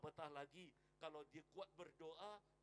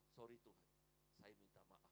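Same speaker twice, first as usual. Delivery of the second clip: quiet repentant plea; 7 semitones lower, 7 dB quieter than usual. Retold or imitated. Banker repents, quoted softly.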